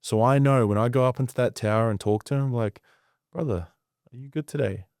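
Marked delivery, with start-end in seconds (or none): 3.3-4.9 soft concerned brother-to-brother question; gentle check-in. Retold or imitated. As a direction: ease into it quietly, caring. Chief checking in on Jerry.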